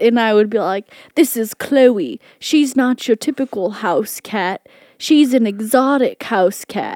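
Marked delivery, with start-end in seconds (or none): 1.1-7.0 put-on Australian accent in presenter style. Recreating her old cat videos, introducing her cat, in a put-on Australian accent. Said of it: "i had an australian accent when i would do the videos".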